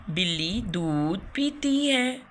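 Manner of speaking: slow, each word laid out for pupils; slow teaching model sentence. Shown as a demonstration. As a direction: say it slowly like a teacher's example. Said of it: "मैं आपको एक example देके समझाती हूँ". (धीमे, समझाते हुए)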